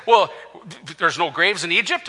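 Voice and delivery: mock question with a rise at the end; lightly sarcastic, querying tone. The people needle Moses about graves in Egypt, sarcastic. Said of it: "It's sarcasm they're saying".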